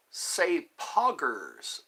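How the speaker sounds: slow, drawn-out "Say poggers"; saying poggers on request. Shown as a demonstration. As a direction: stretch "Say poggers" out slowly, as a request. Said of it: "someone asked me to say poggers".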